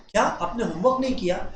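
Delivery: soft, caring teacher asking gently; gentle concerned teacher; lovingly. Shown as a demonstration. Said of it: "इतने प्यार से कोई teacher बोल रहा है".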